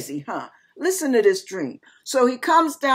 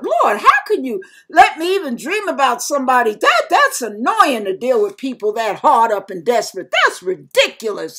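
retold indignant grumble to God; complaining. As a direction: fuss at the Lord in protest. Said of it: "I'm complaining to the Lord".

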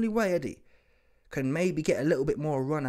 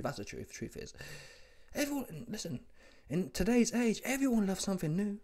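normal talking voice

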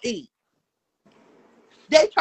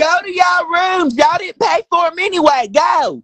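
shouting; 3 semitones higher than usual. Real, not acted. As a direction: bark them out of the room. Shouting at the others to leave.

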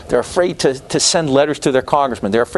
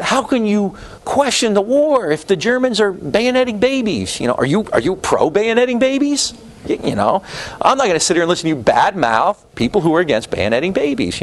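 mock outrage; 8 semitones higher than usual. Mocking pro-war propaganda voice.

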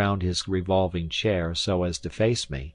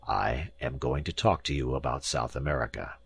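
lightly voiced domineering professor; pompous professor; 6 semitones lower, 4 dB quieter than usual. A narrator's reading. Professor announces his South America talk, lightly pompous. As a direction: lay down the terms like a lecturer.

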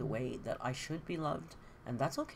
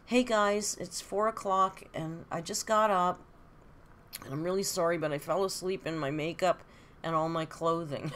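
mock vlogger wake-up; 3 semitones higher, 6 dB louder than usual. Mocking a vlogger who just rolled out of bed, loud fake-cheery greeting. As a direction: send up a lazy vlogger greeting fans. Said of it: "I thought I was gonna come on and say".

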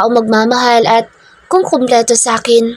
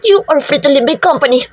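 higher, cold command to the room; commanding order; 3 semitones higher than usual. Acted. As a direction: dismiss them like a tyrant. Boss orders staff back to work.

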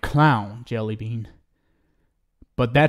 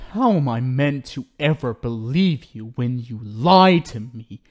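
ordinary delivery

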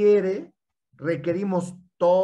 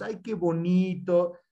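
put-on baby talk; slower than usual. Shown as a demonstration. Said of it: "el tono de voz".

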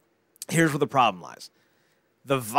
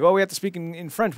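mock panicked character; 6 semitones higher, 3 dB louder than usual. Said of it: "they're like".

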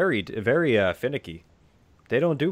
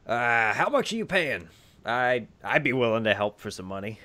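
small gnome. Acted. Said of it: "the small gnome goes".

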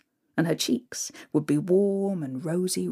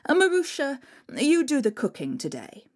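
a touch of bossy stepmother; wicked stepmother; 6 semitones higher than usual. Acted. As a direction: order her about, lazy and cold.

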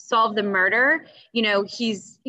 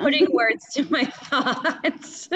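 laughing; 4 semitones higher, slower than usual. Real, not acted. Laughing while thanking.

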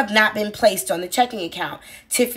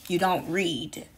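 quiet pointed jab; 4 semitones lower, 8 dB quieter, slower than usual. Real, not acted. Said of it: "third repeat, quieter".

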